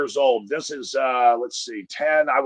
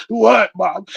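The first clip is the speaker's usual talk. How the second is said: put-on scared kid; 5 semitones higher, 3 dB louder than usual. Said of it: "We're like".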